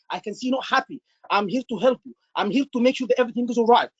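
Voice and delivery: "I can see you're not happy" said gently and kindly; soft acknowledging. Shown as a demonstration. Doctor calming an upset patient, soft and kind. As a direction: reassure softly, with care. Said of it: "acknowledge in a nice way, in a soft way".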